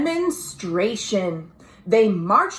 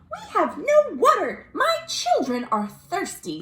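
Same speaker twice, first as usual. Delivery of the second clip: tearful rabbit mother; pleading rabbit; 8 semitones higher than usual. Acted.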